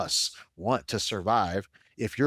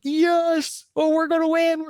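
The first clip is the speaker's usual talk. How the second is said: much higher and louder, jubilant cheer; 6 dB louder, slower than usual. Retold or imitated. Fan cheering his team's lead on the couch, jubilant yell. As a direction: yell it like your team just took the lead.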